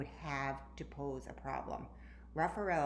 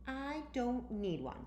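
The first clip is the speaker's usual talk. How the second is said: confident; 7 semitones higher than usual. A narrator's reading. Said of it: "said Diamante confidently".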